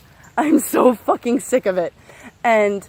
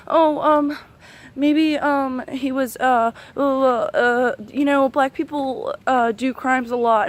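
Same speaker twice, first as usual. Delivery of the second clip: higher-pitched, fumbling imitation full of ums and uhs; hesitant mock excuse; 3 semitones higher, slower than usual. Mimicking someone defending cops, hesitant and mocking. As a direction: stammer it out like a feeble excuse-maker.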